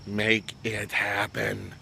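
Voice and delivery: very slow, word by word; deliberate, drawn-out urging; emphatic slow request. Real, not acted. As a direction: stretch each word out for emphasis. Slow plea for shirts.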